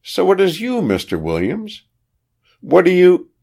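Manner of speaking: high-pitched exclamation as the countess; exclaiming. A narrator's reading. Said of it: "she exclaimed".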